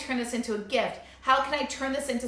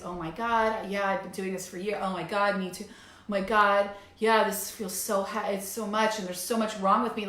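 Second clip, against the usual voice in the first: mock despair; 3 semitones lower than usual. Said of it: "not take anything I'm saying as".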